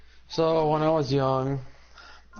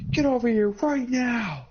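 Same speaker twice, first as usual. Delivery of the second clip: put-on high, slow bossy old lady order; stern command; 9 semitones higher, slower than usual. Neighbour lady summons the boys, high slow scolding order. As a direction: order them over like a furious grandma. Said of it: "so he's like".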